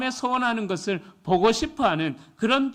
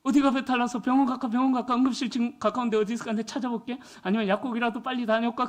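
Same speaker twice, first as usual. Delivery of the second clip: higher, fast flustered fussing; hammed-up fluster, higher and fast; fussy panic; 4 semitones higher, faster than usual. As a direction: fuss over your sick wife in a rush. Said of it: "호들갑을 떨면서".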